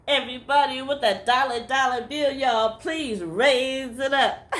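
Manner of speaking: a hint of a pulpit preacher asking for money; preacher's call. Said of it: "He never did say".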